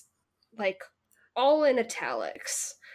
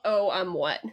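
dazed; 4 semitones lower than usual. Shown as a demonstration. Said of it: "That's gonna be my response to".

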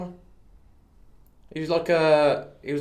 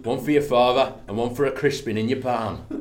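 Cockney. Pretend. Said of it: "That one went a bit northern".

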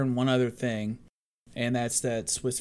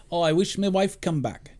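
hammed-up bad Irish accent; 4 semitones higher than usual. Podcast host voicing a film character's wish, bad Irish accent. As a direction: do a clumsy mock Irish accent. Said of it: "That's my bad accent".

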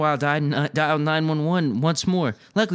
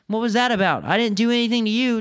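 indignant protest; 8 semitones higher, 4 dB louder than usual. A narrator's reading. Knocked-down boy protests in story.

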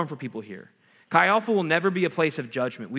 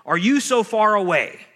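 lament cry; 5 semitones higher, 6 dB louder, slower than usual. Shown as a demonstration. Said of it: "Psalm ten says this".

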